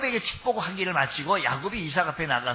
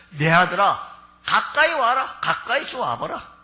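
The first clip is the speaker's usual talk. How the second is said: put-on old father beckoning; 2 semitones higher, 5 dB louder than usual. Blind Isaac calling son closer to touch him. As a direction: coax the son nearer.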